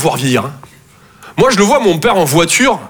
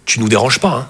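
coy mother; 6 semitones lower than usual. Retold or imitated. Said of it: "Et elle est là".

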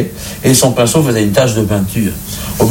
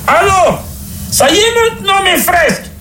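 much higher shouted pope voice; pope shouting. Acted. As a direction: holler at the door, impatient.

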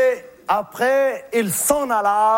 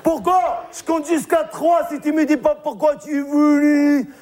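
mock scolding; 5 semitones higher than usual. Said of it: "J'ai commencé à pleurer".

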